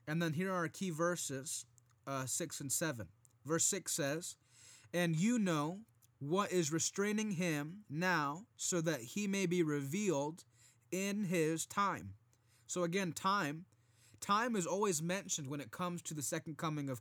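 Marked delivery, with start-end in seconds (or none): 4.9-12.2 firm, measured Bible reading; scripture reading. Acted. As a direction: read the verses with preacher weight. Reads scripture aloud.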